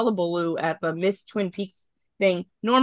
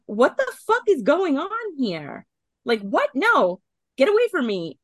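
a hammed-up confused protest; confused outburst; 5 semitones higher than usual. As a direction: push them off, bewildered and upset. Nadine confused, pushing them away.

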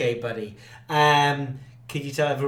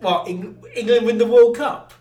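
surprised; 7 semitones higher, 8 dB louder than usual. Real, not acted. Father surprised at child's answer.

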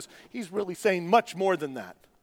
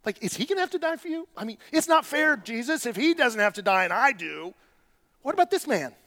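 high, fast, whining protest; mock-whiny Peter demanding fairness; jealous complaint; 3 semitones higher than usual. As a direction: sulk like a jealous child. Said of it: "Peter's like".

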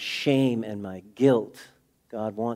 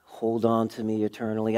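soft, slightly lowered plea; quiet prayer; 2 semitones lower, 6 dB quieter than usual. Retold or imitated. Seventeen-year-old praying for salvation, hushed plea. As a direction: pray it quietly and simply. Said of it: "I said the best way I knew how".

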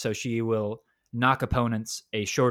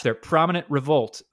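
put-on anime girl voice; 4 semitones higher, 6 dB louder than usual. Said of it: "squeaky anime girl voice".

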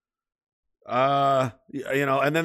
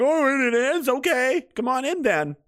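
higher, gullibly cheerful pig; gullible pig; 9 semitones higher, slower than usual. Retold or imitated. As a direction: fall for it like a trusting little pig. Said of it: "And they're like".

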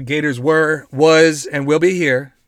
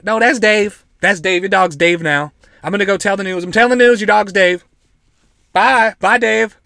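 lightly voiced pushy kid, pitched up; raised, louder mock kid voice; insistent local kid; 4 semitones higher, 4 dB louder than usual. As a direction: play a kid who won't be argued with. Acting kid insisting on renaming dog.

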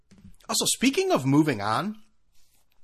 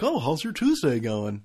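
slow, singsong cashier greeting; chatty cashier. Retold or imitated. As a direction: imitate the friendly checkout clerk, drawn out. Cheery cashier small talk.

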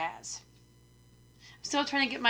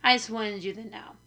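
raspy, smoky sick voice; rough hoarse throat. Real, not acted. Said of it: "I sound like Bea Arthur".

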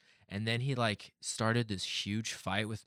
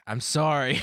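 mock apology, raised pitch and volume; sheepish apology; 4 semitones higher, 7 dB louder, slower than usual. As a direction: play a caught-out apology, about to laugh. Retold sheepish apology after outburst.

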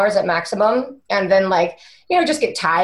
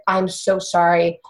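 mildly guilty and gentle; sheepish husband. Retold or imitated. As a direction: imitate a sheepish husband saying sorry. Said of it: "my husband felt so sheepish".

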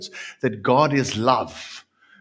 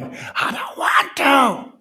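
high, slow, wailing refusal; defiant scream; 5 dB louder, slower than usual. Acted. A damned soul screaming at God, crying refusal. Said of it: "grinding of teeth and screaming".

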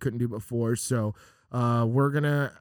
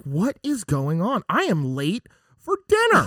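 slow then higher put-out driver; fussy driver late for dinner; annoyed driver; 5 semitones higher than usual. Retold or imitated. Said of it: "and they're like".

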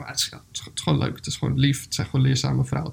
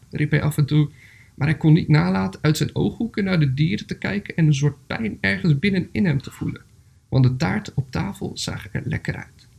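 measured storybook reading with pauses; story narration. A narrator's reading. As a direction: read a gentle animal tale aloud, phrase by phrase. Reads a story aloud.

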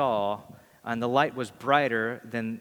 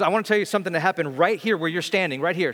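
fast, eager and louder, pitched up; excited; 4 semitones higher, 4 dB louder, faster than usual. Retold or imitated. Excited woman telling the pastor what happened here, quick and eager. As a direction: hurry through it, pointing at the spot. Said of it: "really, really excited".

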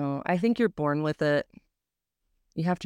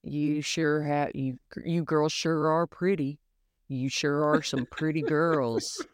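creepy hillbilly. Pretend. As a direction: play a leering creep from a movie. Continues creepy quote.

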